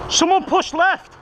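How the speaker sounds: high, slow called command; called order. Real, not acted. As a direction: call it out across the field. Calling order in combat.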